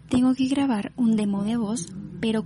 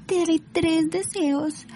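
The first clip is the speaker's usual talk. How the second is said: higher, theatrical genie voice; genie of the lamp; 4 semitones higher than usual. Acted. Genie offering three wishes to a new master, theatrical. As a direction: greet like a genie, lifting the final question. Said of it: "yo soy el genio de la lámpara".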